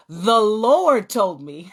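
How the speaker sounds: slow, drawn out through a laugh; laughing excuse. Retold or imitated. Caught by her sister, the child excuses herself, laughing. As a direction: stretch it out as you giggle.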